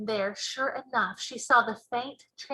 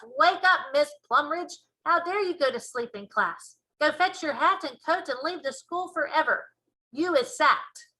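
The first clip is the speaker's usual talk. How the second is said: loud, stern telling-off; shouting head teacher; 4 semitones higher, 3 dB louder than usual. Acted. Head teacher catching the teacher asleep, a stern raised shout. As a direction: bark at the sleeping teacher. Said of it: "he shouts".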